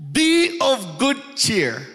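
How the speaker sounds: slow, lifted, a touch grand; lightly voiced Jesus; solemn Jesus quote. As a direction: intone it like scripture. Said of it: "He says".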